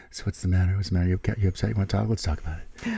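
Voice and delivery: teasing sing-song concern for a crabby partner; mock tender coaxing. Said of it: "your little light voice".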